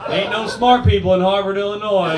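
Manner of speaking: small-town Midwesterner. Retold or imitated. Comic bit mocking Midwestern locals, hammed-up small-town voice. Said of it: "people are like".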